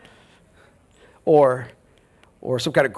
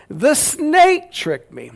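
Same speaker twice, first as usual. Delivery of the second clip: mock innocent; 12 semitones higher, 3 dB louder, much slower than usual. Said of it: "So she can't blame her husband".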